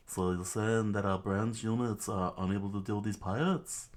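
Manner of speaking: put-on light British accent on the officer; pseudo British voice. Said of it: "the pseudo Brit voice".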